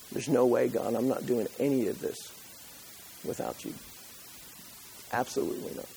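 fading to a whisper; soft intimate vow fading to whisper; hushed vow. Acted. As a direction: drop to a breathy whispered resolve. Moses' vow voiced softly.

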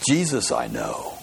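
very low, slow demonic growl of a voice; evil spirit voice. Pretend. Preacher playing the evil spirit for the congregation, very low and slow. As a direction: drag it down into a deep demon rumble. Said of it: "my best evil spirit voice".

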